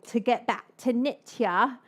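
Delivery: put-on lightly British-accented phrase; accidental British accent. Host returning to the topic of Nitya, accidental British accent. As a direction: slip briefly into a British accent. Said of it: "I don't know what that British accent was".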